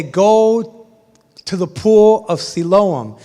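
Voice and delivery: a calm, weighty instruction; Jesus telling the blind man where to go. Acted.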